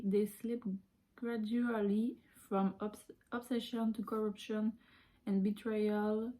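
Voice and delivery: reads the English slowly, word by word; slow careful English reading. Shown as a demonstration. Reading the English blurb to viewers, slow and careful. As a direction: sound out each English word with care.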